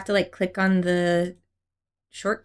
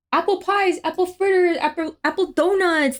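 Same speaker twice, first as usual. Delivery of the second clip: higher, bright sales pitch; chirpy shopkeeper voice; 6 semitones higher than usual. Retold or imitated. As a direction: gush over every apple item. Imitating apple-themed shop staff.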